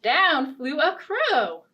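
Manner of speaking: lively, sing-song storybook narration; animated read-aloud for little listeners; children's story reading. A narrator's reading. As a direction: read it like a picture book to kids.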